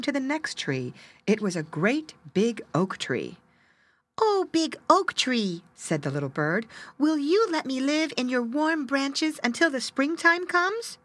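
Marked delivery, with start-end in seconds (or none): 4.2-11.0 pleading little bird. Acted.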